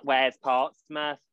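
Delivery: put-on slow, puzzled broad Derby accent; imitating the Derby girl, drawn out; light Derby accent, slow; mock Derby accent. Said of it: "with the broadest Derby accent".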